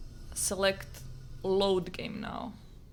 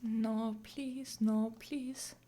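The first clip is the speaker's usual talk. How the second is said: anguished denial; 2 semitones higher, 5 dB quieter, much slower than usual. Real, not acted. Pleading over lost save.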